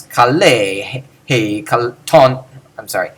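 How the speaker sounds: low, chanted baritone syllables; nada bariton rendah. Shown as a demonstration. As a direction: intone each syllable low and even. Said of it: "saying all these in a low baritone voice".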